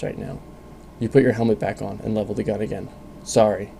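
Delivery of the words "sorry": mechanical voice. Acted. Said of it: "says the mechanical voice".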